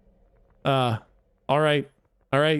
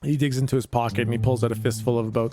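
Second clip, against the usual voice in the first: Dracula voice; 4 semitones lower than usual. Acted. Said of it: "I'm getting a little bit Dracula now".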